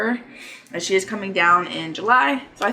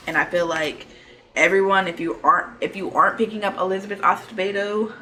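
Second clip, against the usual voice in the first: slurring around a retainer; retainer slur. Real, not acted. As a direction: talk with a retainer in. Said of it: "I kinda got a slur because I also have my retainer in".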